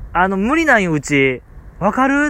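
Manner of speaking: retold gruff shopkeeper. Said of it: "結構怒鳴り気味やったからね".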